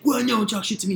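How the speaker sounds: high-pitched mock taunting; imitated taunt. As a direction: mimic a drunk rival talking back.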